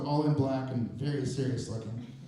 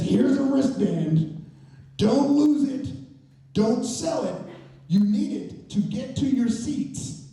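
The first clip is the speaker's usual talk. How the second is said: slow, louder, high orders; stern instructions; 7 semitones higher, 5 dB louder, slower than usual. Retold or imitated. Stranger hands out wristbands with firm slow instructions. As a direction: lay down the rules slowly. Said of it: "And then he says".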